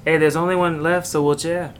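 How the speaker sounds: light mock Spanish accent on wheelchair. Asked by a friend to do the Spanish accent. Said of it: "you have to do your Spanish accent".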